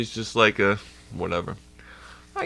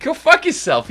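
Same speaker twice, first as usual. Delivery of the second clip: much higher, louder mocking retort; shrill-free hammed-up brush-off; mock offended girl; 7 dB louder than usual. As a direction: snap it back like an offended chick. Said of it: "It's like".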